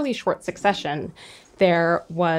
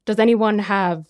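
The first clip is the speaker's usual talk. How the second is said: Sotheby's auctioneer. Retold or imitated. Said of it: "the Sotheby's is more like".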